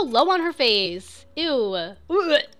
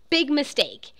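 movie quote; 4 semitones higher, 3 dB louder than usual. Retold or imitated. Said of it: "It's from Pretty Woman".

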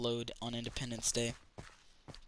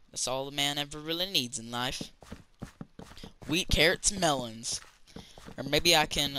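put-on country accent. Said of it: "why am I talking in a country accent?".

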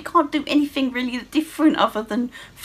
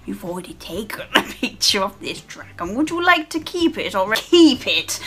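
game prompt imitation. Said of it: "it's the same dragon that always goes".

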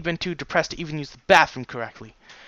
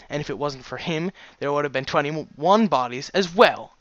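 indignant argument; 5 semitones higher, 4 dB louder than usual. Acted. Daughter argues back at her father.

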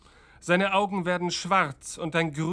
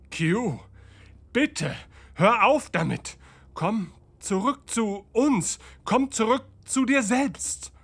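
pleading, rising higher; 5 semitones higher than usual. Acted. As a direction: beg him to come back.

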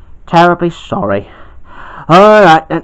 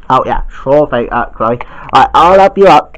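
a lightly lowered man voice; low man voice; 6 semitones lower than usual. Acted. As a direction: lower man's voice, helpful. Old man figure answers.

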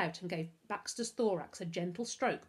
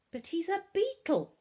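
high, louder horrified protest; appalled; 11 semitones higher, 6 dB louder than usual. A narrator's reading. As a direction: object in utter disgust. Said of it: "Novak was appalled".

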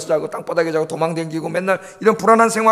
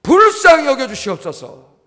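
pleading, louder and slower on the second half; desperate father's plea; 4 dB louder, slower than usual. Retold or imitated. Preacher voicing a desperate father, slow begging plea. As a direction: beg Jesus like a father whose son suffers. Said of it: "쫓아와가지고 뭐라고 그랬어요".

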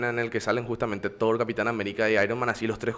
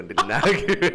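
laughing; 3 dB louder than usual. Real, not acted. Laughing at own name mix-up.

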